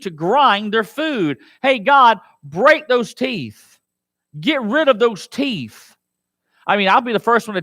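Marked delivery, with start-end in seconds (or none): 1.6-6.0 slow, drawn-out plea; David's plea. Acted. Preacher as David pleading God, slow. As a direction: stretch each word of the plea.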